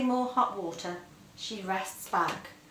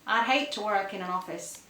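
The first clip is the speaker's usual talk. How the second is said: put-on American accent. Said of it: "says the speaker in a gravel drawl".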